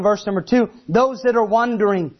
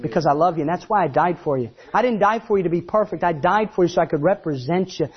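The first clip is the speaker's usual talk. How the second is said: Jesus voiced; 3 semitones lower than usual.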